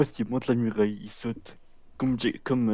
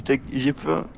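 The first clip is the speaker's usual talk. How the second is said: put-on hungry fat kid; 3 semitones higher, slower than usual. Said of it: "Tu fais trop bien le gros".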